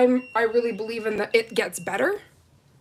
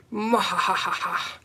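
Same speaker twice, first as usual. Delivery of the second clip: evil laugh; 2 semitones lower than usual. Pretend. Playful villain laugh.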